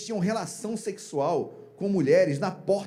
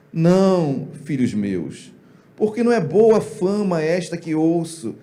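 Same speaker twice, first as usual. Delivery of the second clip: mild reproach; 3 dB louder, slower than usual. Acted. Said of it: "A entonação é minha".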